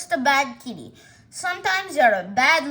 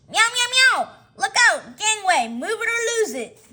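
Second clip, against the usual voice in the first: high, loud panicked cries; panicked yelling; 6 semitones higher, 4 dB louder than usual. Acted. Fleeing crowd yelling as kitty charges, panicked. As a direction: scream and scatter in panic.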